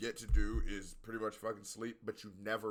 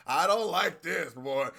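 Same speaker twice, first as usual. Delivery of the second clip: mock protest; 5 semitones higher, 11 dB louder, slower than usual. Acting out the hurt, laughing.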